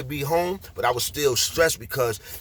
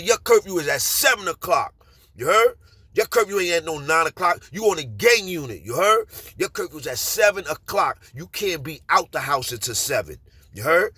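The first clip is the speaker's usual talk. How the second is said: PO yelling; 3 semitones higher than usual. Retold or imitated. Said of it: "he started yelling at me".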